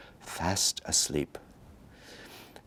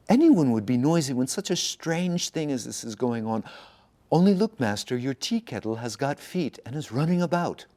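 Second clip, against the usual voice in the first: excited; 6 semitones higher than usual. Acted. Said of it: "novice insists excitedly".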